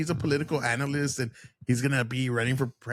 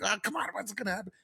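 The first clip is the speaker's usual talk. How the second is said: mock anxious anticipation; 4 semitones higher, 8 dB quieter, faster than usual. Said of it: "you're in anticipation".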